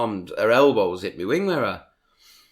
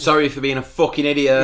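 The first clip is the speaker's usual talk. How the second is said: mock apology; 4 semitones higher, 6 dB louder than usual. Mocking the pedestrian's apology.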